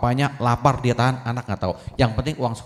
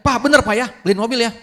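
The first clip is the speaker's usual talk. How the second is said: much higher and louder, pleading; eager begging son; 11 semitones higher, 6 dB louder, faster than usual. Acted. Son excitedly begging his father to buy the car, high and loud.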